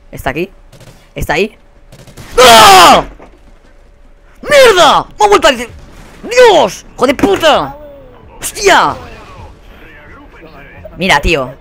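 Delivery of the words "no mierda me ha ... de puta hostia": very high, loud string of curses; furious yelling. Real, not acted. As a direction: lose it completely at the game. Vuelven a matarle. (gritos furiosos)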